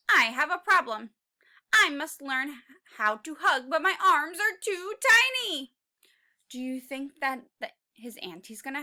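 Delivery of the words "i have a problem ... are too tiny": Tiny T-Rex. Acted. Tiny voice, louder.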